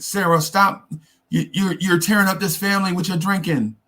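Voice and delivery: high, hammed-up TV family confrontation; melodramatic plea. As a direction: play it like a soap opera scene. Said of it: "that's the Hollywooded up version".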